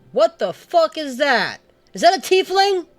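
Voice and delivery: shocked high outburst; surprised. Acted. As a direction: break off the song startled. Sudden shocked outburst mid-song.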